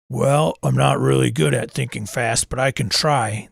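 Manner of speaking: a hint of a miner voice, hesitant; lightly voiced miner. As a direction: miner answers, lightly played. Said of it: "That's my minor voice".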